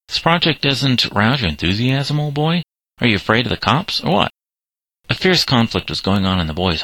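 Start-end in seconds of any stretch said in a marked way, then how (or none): 0.1-4.3 higher-pitched, goading questions; loud taunt. A narrator's reading. Simon goads hesitant Patrick about the car plan, taunting. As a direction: taunt him with mock-questioning lifts in pitch. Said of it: "taunted him loudly".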